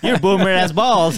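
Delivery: slow, laughing slang roast; laughing tease. Acted. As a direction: push the slang through laughter.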